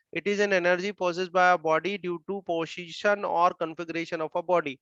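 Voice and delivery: each word drawn out slowly for note-taking; slow dictation. Acted. Teacher dictating the potential energy definition, slow dictation. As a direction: read the definition slowly enough to copy.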